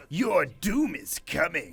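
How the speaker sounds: slow, drawn-out anime villain. Shown as a demonstration. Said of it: "do it again?".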